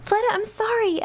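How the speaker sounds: high, small frightened plea; timid apology. Acted. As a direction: beg like a scared little girl. Girl apologises to angry Fleta.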